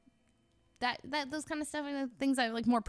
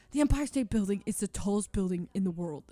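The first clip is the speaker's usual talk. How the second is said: confident; 5 dB louder than usual. Retold or imitated. Friend quoted, repeated claim.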